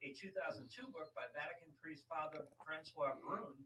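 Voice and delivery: soft read-aloud of an article. Real, not acted. Host reads co-host an article on the chronovisor, soft read-aloud. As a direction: read it out quietly from the page.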